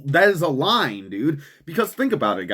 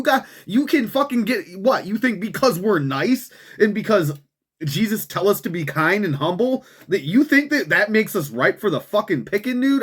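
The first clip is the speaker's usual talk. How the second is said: worked up; 5 semitones higher than usual. Real, not acted. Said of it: "I'm getting all fucking worked up here".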